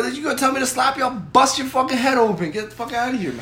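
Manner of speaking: worked-up, playacted outrage; acted threat. Retelling his threat to the woman.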